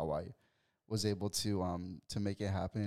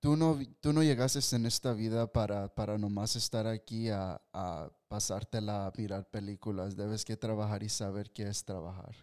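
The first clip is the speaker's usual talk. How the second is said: calm. Retold or imitated. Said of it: "You were calm".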